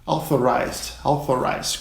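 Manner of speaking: authorized said AW-thor-ized; English authorized. Shown as a demonstration. Teacher models authorized for student pilots. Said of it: "Próxima palavra é".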